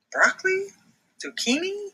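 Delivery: high excited duck voice; squeaky duck chef finding the answer; Max the duck. Acted. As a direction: list ingredients in a high duck voice, then triumphant. Max character voice.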